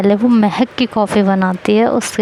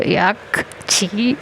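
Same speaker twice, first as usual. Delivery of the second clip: disgust; 6 dB quieter, much slower than usual. Real, not acted. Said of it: "coffee में नमक डाल के".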